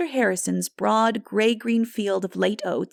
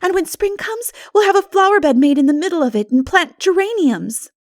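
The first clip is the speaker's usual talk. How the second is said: eager and higher, a touch louder; cheerful girl planning; gay; 11 semitones higher, 7 dB louder than usual. A narrator's reading. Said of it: "agreed Anne gaily".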